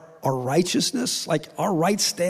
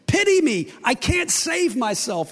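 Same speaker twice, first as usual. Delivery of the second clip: pleading for mercy; 5 semitones higher, slower than usual. Retold or imitated. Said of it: "Just acknowledge your bankruptcy and say".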